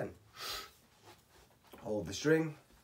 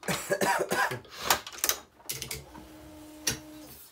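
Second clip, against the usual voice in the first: hard hacking cough; coughing fit; 4 dB louder than usual. Real, not acted. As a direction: cough it out hoarsely. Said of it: "I'm losing my voice a little bit".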